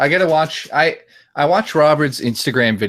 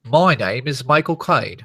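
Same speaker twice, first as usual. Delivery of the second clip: slow demonstrated Cockney impression; drawn-out British impersonation; Michael Caine. Shown as a demonstration. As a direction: stretch the vowels to show how. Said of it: "you gotta do it with, like".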